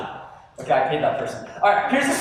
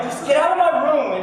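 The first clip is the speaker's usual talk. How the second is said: mock irritated teen; 8 semitones higher, 3 dB louder than usual.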